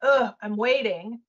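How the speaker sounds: slow, mildly fed-up groan; frustrated waiting. Acted. Coach showing projectors the passive energy, mildly exasperated and slow. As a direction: act out passive waiting with a drawn-out ugh. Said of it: "shift your energy from this".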